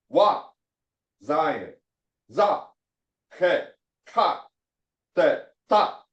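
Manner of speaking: each letter then its sound, clipped short; quick syllables. Shown as a demonstration. Teacher drilling quick letter sounds for the class. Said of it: "So you pronounce with a quick sound".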